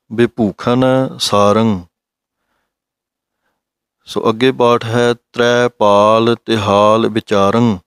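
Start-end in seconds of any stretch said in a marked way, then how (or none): 0.1-1.8 slow, drawn-out scripture chanting; slow recitation. Shown as a demonstration. Teacher reciting the Gurbani line for students, slow recitation. 5.1-7.8 slow, deliberate scripture chanting; slow recitation. Shown as a demonstration. Teacher reciting the Gurbani line for students, slow recitation.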